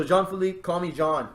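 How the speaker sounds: a light put-on French accent on the name; mock French accent. Game master voices the new character in a light French accent. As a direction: introduce himself in a hint of French accent. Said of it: "I don't know why I did that accent".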